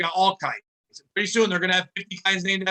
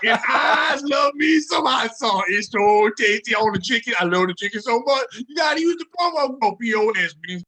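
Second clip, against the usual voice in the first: Barack Obama; 3 semitones higher than usual. Acted. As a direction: belt out an absurd mock-Irish presidential voice. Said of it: "That's your, that's your Irish accent".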